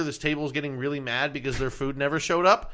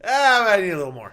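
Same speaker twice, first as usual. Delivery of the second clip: mocking whiny customer; 4 semitones higher, 5 dB louder than usual.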